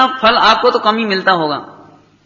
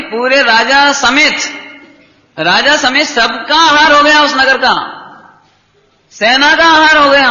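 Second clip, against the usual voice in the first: building louder and higher in wonder; rising wonder; 4 semitones higher, 3 dB louder, slower than usual. Real, not acted. Preacher marvels to the congregation, rising and louder. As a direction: swell with amazement at the miracle.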